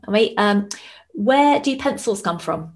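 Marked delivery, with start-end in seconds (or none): 1.1-2.7 put-on high, slow kid asking a riddle; playing her son telling a joke; child's voice. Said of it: "He went".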